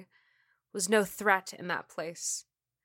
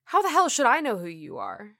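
indignant; 3 semitones higher, 6 dB louder, faster than usual. Acted. Cop snapping at unknown man.

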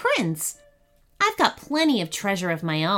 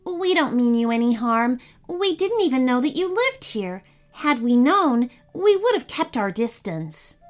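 calm and level; 3 semitones higher than usual. Acted. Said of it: "keeping his voice as calm and level as he could".

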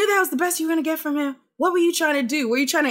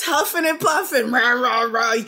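mock Newcastle accent. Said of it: "That's my attempt at a, a Newcastle accent".

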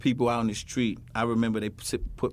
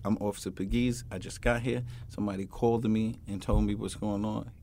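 polite officer; 4 semitones lower, 6 dB quieter than usual. Retold or imitated. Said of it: "you should be saying".

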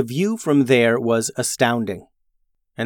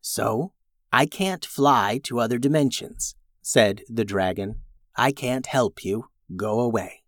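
softer, dismissive dragon; 4 dB quieter than usual. Acted. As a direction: quietly brush them off. Dragon voiced by reader.

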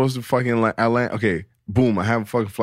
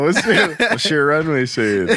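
slow, high, laughing question; 5 semitones higher, slower than usual. Real, not acted. Teasing friends about a runway joke, laughing. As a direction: drag it out through the giggles.

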